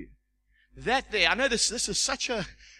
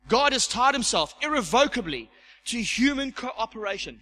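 louder, higher, powerful American accent; 4 semitones higher, 4 dB louder than usual. Shown as a demonstration. Preacher making a fridge magnet saying sound powerful, American accent. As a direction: make it a grand American pronouncement. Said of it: "you've gotta say it in an American accent".

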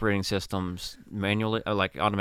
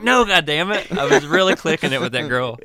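frustrated outburst; 4 semitones higher, 7 dB louder than usual. Retold or imitated. Arguing with his armor.

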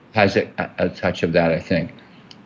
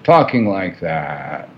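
slow, dismissive W C Fields-style drawl; 4 semitones lower, slower than usual. Retold or imitated. Telling the interviewer how Burroughs talked, slow dismissive drawl. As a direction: lightly imitate a bored, dismissive old writer. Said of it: "They're all like this, very dismissive".

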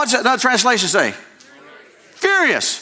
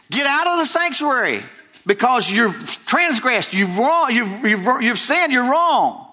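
rebuking priests; 3 semitones higher than usual. Acted.

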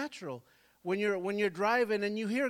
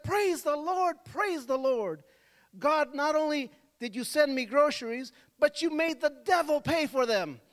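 put-on much higher, louder, overjoyed old lady; jubilant praise; 7 semitones higher, 5 dB louder than usual. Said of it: "started jumping up even more and clapping".

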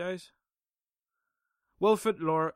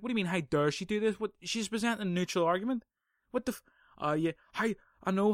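mock outraged, higher-pitched retort; acted indignation; 5 semitones higher than usual. Podcaster retorting to the university on the lecturer's behalf, acted indignation. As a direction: argue back in exasperated disbelief, hammed-up.

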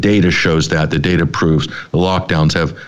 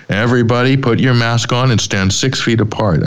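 mock hokey Midwestern Santa, pitched higher; a hint of a hammed-up Midwestern dweeb; dweeby Santa; 5 semitones higher than usual. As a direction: lightly imitate a helpless snowflake Santa. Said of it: "He sounds like a complete dweeb".

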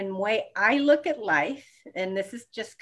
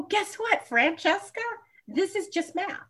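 perky self-talk; 11 semitones higher than usual. Retold or imitated. Self-talk pep in high voice.

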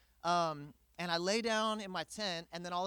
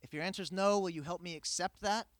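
calm trusting prayer; faster than usual. Retold or imitated. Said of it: "I could have said".

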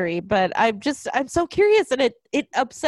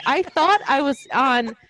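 normal talking voice

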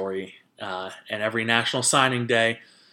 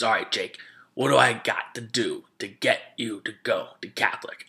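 a hint of a pushy recruiter; aggressive coach. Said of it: "he's, like, aggressive at the".

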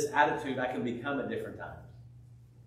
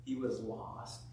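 gentle father. Retold or imitated. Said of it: "He said".

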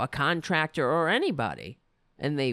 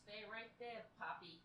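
much softer, quick murmur to the cat; quiet aside; 4 semitones higher, 25 dB quieter, faster than usual. Real, not acted. She quietly tells her cat Poppy to stay right there. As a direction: drop way down, tell the cat to stay put.

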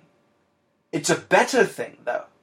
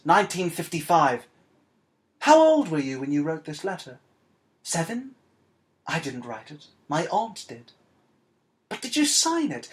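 measured, expressive reading of a short story; literary storytelling voice; story narration. A narrator's reading. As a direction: read the tale aloud, lifting the quoted letter and dialogue. Reads a short story aloud.

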